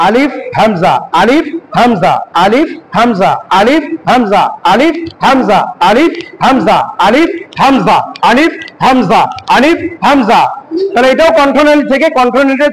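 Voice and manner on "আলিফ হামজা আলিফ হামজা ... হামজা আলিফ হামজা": আলিফ and হামজা chanted in turn with an open, relaxed throat; relaxed-throat drill. Shown as a demonstration. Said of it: "কণ্ঠনালীটাকে ছেড়ে দিয়ে স্বাভাবিকভাবে".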